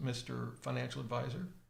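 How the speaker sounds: normal talking voice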